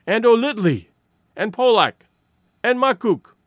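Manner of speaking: loud, high calling out; crying out names. A narrator's reading. Women crying out the names of missing men. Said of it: "the voices took up the cry".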